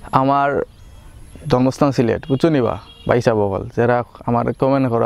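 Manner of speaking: switching into his home Sylheti dialect; proud, chatty Sylheti speech. Shown as a demonstration. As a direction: talk it out in casual Sylheti. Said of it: "আজকের ভিডিওতে আমি সিলেটি ভাষায় কথা বলবো".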